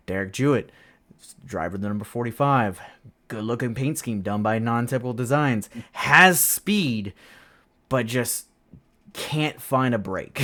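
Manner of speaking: lightly imitated race announcer reading the lineup; race broadcaster. Broadcaster introducing the driver in the starting lineup, lightly mimicked announcer. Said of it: "they'll get to me".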